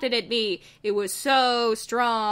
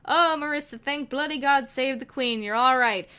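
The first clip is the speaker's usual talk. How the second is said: relieved Wheatley; 3 semitones higher than usual. Acted. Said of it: "Wheatley cried and hugged me".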